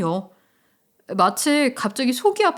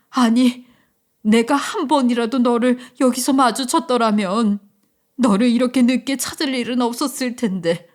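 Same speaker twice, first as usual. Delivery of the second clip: tearful mild shout. Acted. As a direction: cry out in earnest to her son. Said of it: "그녀는 다시 소리쳤어요". (아들에게 울며 외치는 엄마)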